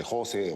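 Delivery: José said as JO-se; stress on first syllable. Retold or imitated. How colleagues address him, José stressed JO-se. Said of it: "le dicen José, no José".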